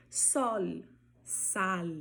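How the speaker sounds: SOL and SAL ending on a clear tongue-tip L; Spanish final L. Shown as a demonstration. Teacher giving examples of word-final L, clear Spanish L. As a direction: hold the L in sol and sal, no U sound. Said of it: "esse mesmo som".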